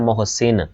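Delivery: मोहसिन as moh-sin, rounded first vowel; correct pronunciation demo. Shown as a demonstration. Teacher explaining the vowel mark, careful demo of मोहसिन as moh-sin. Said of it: "ये ऊपर पेश होता है".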